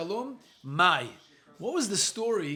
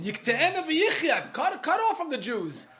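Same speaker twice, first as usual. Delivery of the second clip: high, slow, louder mock outcry; mimicked rallying cry; 8 semitones higher, 4 dB louder, slower than usual. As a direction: draw it out like an agitator's slogan. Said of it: "It's always been the same".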